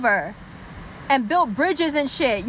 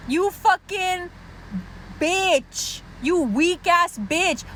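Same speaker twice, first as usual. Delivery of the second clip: exasperated insult; 3 semitones higher, much slower than usual. Acted. Mock insult after evasive answer.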